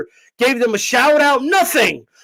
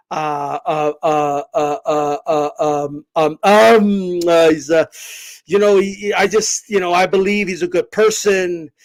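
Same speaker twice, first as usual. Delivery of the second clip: lower, halting mock Floyd voice full of ums; Floyd impression; 8 semitones lower than usual. Mocking Floyd defending the Clippers owner, lower stammering voice. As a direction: play Floyd stammering to defend his friend. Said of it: "Floyd came out and".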